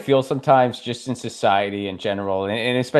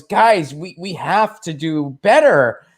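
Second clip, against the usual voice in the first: earnest priest plea; 3 semitones higher than usual. Retold or imitated. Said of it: "he just goes".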